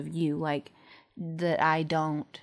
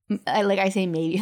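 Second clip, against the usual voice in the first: voice cracking; 5 dB louder than usual. Real, not acted. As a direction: voice cracks mid-sentence. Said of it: "my voice cracks".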